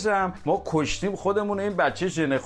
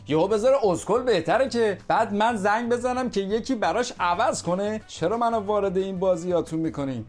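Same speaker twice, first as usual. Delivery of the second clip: outraged protest; 6 semitones higher than usual. Acted. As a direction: raise the pitch in disbelief at the son. Husband outraged at name change. (شوهر خشمگین از تغییر فامیلی پسر، با صدای بالا و معترض)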